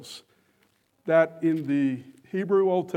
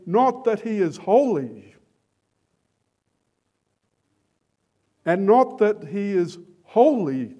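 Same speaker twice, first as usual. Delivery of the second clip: proclaimed holiness; 4 dB louder than usual. Retold or imitated. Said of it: "look upon the one on the throne and say".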